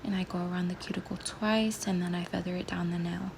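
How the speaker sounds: hoarse morning whisper, just woken; rough, sleepy voice getting over a cold; raspy whisper. Real, not acted. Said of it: "Please excuse my voice".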